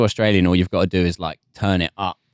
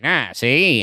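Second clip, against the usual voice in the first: Gilded Age accent; 3 semitones higher than usual. Shown as a demonstration. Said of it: "my favorite accent is that kind of, like, Gilded Age".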